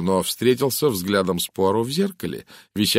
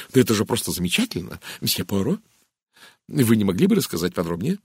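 lightly voiced eager lady; quick, mildly excited enthusiasm; a touch of breathless admiration; gushing Mrs Gardner; faster than usual. Mrs Gardner delighted, begs for details.

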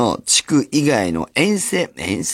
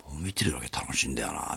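whisper; 8 semitones lower, 12 dB quieter than usual. Retold or imitated. Friend's reply, retold at the game.

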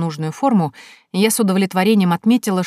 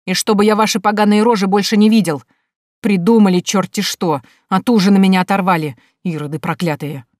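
angry scolding; 5 dB louder than usual. Acted. Officer drives off two men.

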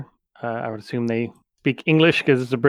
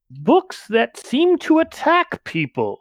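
Tesla voice; 3 semitones higher than usual. Acted. Tesla warns of attacking books.

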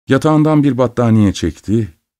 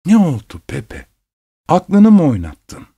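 a higher-pitched, incredulous mother; startled questioning; 8 semitones higher than usual. A narrator's reading. Mother asks her son if he has lost his mind, startled. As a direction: demand an explanation, pitch raised.

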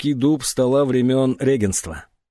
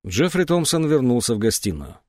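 usual speaking voice

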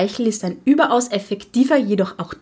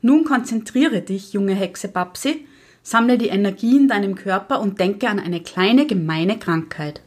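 strict witch teacher. Acted. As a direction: coax the pupil into trance, measured. Witch teacher leads spell. (Hexenlehrerin, leicht gespielt, ruhig anleitend)

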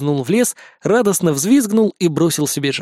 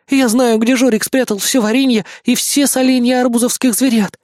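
booming announcement; 8 semitones higher than usual. A narrator's reading. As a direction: announce it grandly to the crowd. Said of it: "громогласно заявил ценный пленник".

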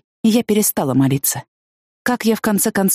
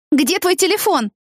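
shouted question; 12 semitones higher than usual. A narrator's reading. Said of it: "крикнула я ему".

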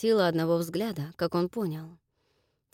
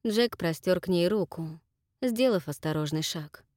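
usual speaking voice

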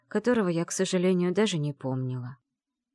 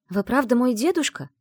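high, louder hopeful question; взволнованный вопрос; 7 semitones higher, 6 dB louder than usual. Acted. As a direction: ask with a catch of hope. Героиня робко спрашивает старика. (взволнованно, с надеждой)

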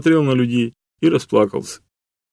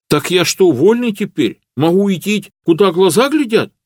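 raised, simple peasant voice, overwhelmed with happiness; a shy serf close to tears of joy; humble serf Matvey; 9 semitones higher, 5 dB louder than usual. A narrator's reading. Matvey asks if free. (робкий крестьянин, высоким голосом от счастья)

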